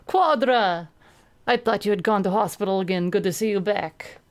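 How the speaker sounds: a lightly voiced big Russian, loud and glad; Elbow's voice. Big Russian teammate greeting Quadra, hearty and loud. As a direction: boom a hearty welcome.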